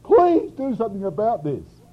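high, loud, imploring cry; pleading. Retold or imitated. Habakkuk begging God to act, pleading. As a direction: beg with a hard push on "please". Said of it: "He pleaded with God to do something".

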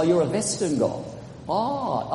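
German accent, "Western" said as "Vestern"; mock German accent. Shown as a demonstration. Preacher joking Goths spoke German, mock German accent. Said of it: "you have a German accent".

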